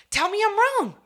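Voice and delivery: loud, very high-pitched demand; high shout of self-justification; emphatic challenge. Real, not acted. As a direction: cry it out, daring them to disagree. Demands agreement from the listener.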